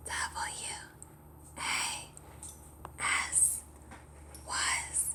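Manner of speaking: hushed, voiceless whisper. Shown as a demonstration. Teacher leads children in whispering the spelling, whispered. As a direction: whisper each letter with space between. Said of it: "Now we're gonna whisper it".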